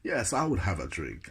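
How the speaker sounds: mock posh English reply; lightly affected posh accent; put-on posh voice. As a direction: answer in your best posh voice. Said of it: "I put on my posh voice".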